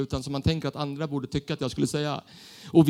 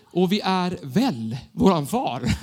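slow, laughing misheard "väl våran far"; misheard lyric; much slower than usual. Retold or imitated. Young worship leader recalling the lyric he misheard, laughing. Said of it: "jag tyckte vi sa så här".

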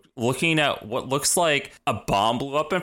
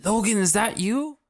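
high, pleading Kurt, much higher than her own voice; 12 semitones higher than usual. Retold or imitated. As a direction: play a needy Nightcrawler begging Logan to remember.

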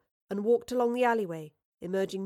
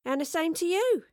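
grinning; 8 semitones higher, 4 dB louder than usual. A narrator's reading. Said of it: "she grinned".

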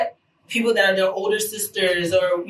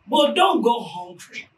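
a hint of English accent; 3 semitones higher than usual. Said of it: "Heard a little English accent coming out there".

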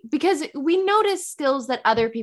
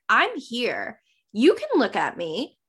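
understated, at ease; comfortable confidence; slower than usual. Shown as a demonstration. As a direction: simply own the space. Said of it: "you have to be comfortable".

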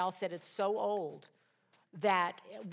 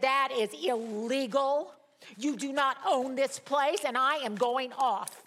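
raised, forceful and slow on "That is illegal"; retold angry stand; 4 semitones higher, 5 dB louder, slower than usual. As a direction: lay down the law at the landlord, louder. Confronting landlord on tenant's behalf.

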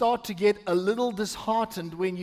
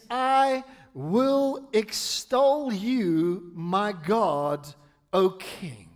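very slow, drawn-out psalm reading; meaningful scripture reading; much slower than usual. Acted. Pastor reading Psalm one forty-five to the church, slow and emphatic. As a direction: read with weight, stretching the key words. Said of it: "I wanna read it with meaning".

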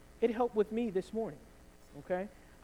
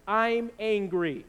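declared anger; 4 dB louder, much slower than usual. Shown as a demonstration. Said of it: "if you're angry this week".

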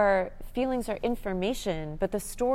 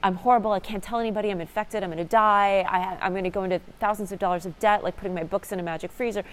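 frantic self-blame, bursts louder; spiralling panic; 3 dB louder than usual. Retold or imitated. Her past self imagining bed bug ruin, mock panicked. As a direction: rattle off the disasters in a rising panic. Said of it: "this would have been".

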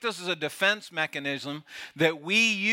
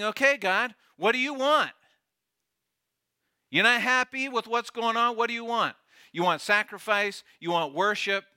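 higher, mocking challenge to God; sarcastic retort; 5 semitones higher than usual. Judah answering God with a sarcastic retort. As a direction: throw the question back with sarcasm. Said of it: "It's an arrogant response. It's facetious. It's sarcastic".

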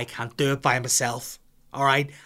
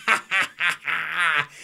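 put-on higher, louder gleeful baby laugh; baby giggling; 5 semitones higher, 5 dB louder, slower than usual. The one-year-old giggles in the bath, higher louder baby laugh. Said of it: "with a shit in each hand going".

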